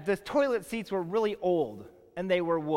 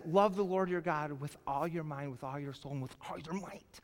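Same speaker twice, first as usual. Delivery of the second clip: soft reading; 3 semitones lower, 6 dB quieter than usual. Real, not acted. Quoting scripture softly.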